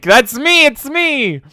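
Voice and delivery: thrilled self-recognition; mock delighted squeal; excited. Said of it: "And it's like".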